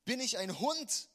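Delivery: Goliath jeering at David; mocking shout. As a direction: bellow it down at the boy. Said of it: "rief er David zu".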